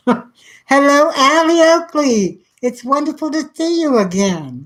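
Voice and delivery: high, bright hello to a friend arriving; light up as she walks in; greeting a viewer who just joined, high and excited. Real, not acted.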